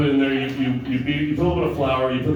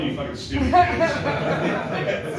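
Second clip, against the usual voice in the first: laughing mock rant; 11 semitones higher, much slower than usual. Real, not acted.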